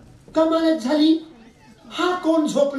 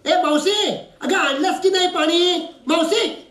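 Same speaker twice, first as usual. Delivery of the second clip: higher, impatient summons; calling out; 4 semitones higher than usual. Acted. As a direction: call across for the maid. Calling the maid for water. (मावशीला जोरात हाक मारणे)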